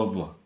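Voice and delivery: teacher sounding out अब; pronunciation demo. Shown as a demonstration. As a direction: draw out the vowel in अब. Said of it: "इसको".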